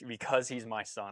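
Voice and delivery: quiet fatherly conviction; understated tender quote. Retold or imitated. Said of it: "just that line alone".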